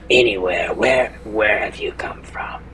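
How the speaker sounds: halting, barely voiced whisper; struggling to speak. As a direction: push words out as if speaking for the first time. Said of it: "he's gonna struggle to produce sound".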